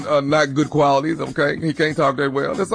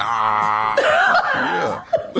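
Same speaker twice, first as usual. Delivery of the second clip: put-on boyfriend character. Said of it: "hold that little character right there".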